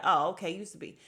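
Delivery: loud retort imitating an upset woman; imitated indignant comeback; mock upset. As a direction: repeat it back, put out and loud. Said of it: "Destiny got upset and repeated it".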